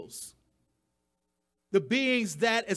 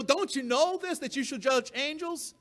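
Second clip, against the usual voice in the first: incredulous Paul; 4 semitones higher than usual. Retold or imitated. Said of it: "he says it like".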